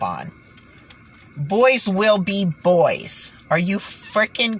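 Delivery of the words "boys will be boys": put-on slow, drawn-out sneer on "boys"; scornful parody of an official shrug; sarcastic mock excuse. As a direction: drag out the excuse to show how absurd it is. Mocking the UN's excuse.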